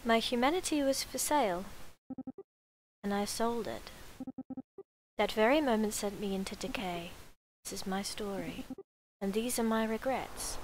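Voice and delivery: measured, slightly hushed narration; solemn story narration. Acted. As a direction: read it as a regretful confession, pausing between phrases. Reads the game's opening story.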